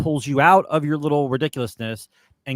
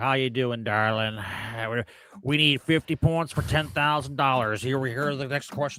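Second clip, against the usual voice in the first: quieter put-on drunk voice with slurred words; 4 dB quieter than usual. Retelling how a game show host acted on the show: imitating drunk Richard Dawson. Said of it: "he's like".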